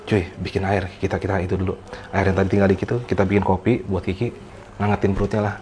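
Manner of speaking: hushed instruction. Retold or imitated. Quiet order to companion.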